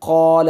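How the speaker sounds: क़ाल with the alif kept full and heavy; teacher demonstrating क़ाल; full alif demo. Shown as a demonstration. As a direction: say क़ाल full-mouthed throughout. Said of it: "ऐसे नहीं कि अलिफ".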